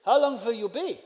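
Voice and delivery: put-on clumsy foreign accent, W said as V; terrible put-on accent. Host questioning guest about bath, terrible put-on accent. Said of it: "I'm sorry for the terrible accent".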